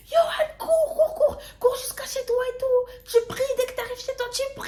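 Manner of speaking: very high, fast, laughing panicked voice; frantic pleading. Retold or imitated. Urging Johan to run home and pray, laughing panic. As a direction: squeal it half laughing in panic.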